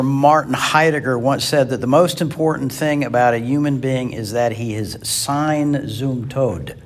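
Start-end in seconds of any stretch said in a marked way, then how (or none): 5.0-6.8 German accent. Shown as a demonstration. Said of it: "That's my best German accent".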